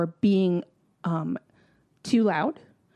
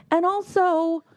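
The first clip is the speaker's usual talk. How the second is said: angry; 6 semitones higher than usual. Real, not acted. Ranting about the rude museum visitors.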